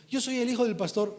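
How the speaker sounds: high, loud mock bragging; imitated boast. Preacher imitating his young son pulling rank, loud boast. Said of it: "sacar la, la charola".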